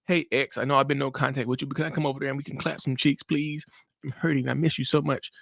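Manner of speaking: soft, lightly acted plea to an ex; mock pleading. Emotional brain begging an ex to take them back, mock pleading. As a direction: beg quietly, as if hurting and lonely. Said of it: "The emotional brain like".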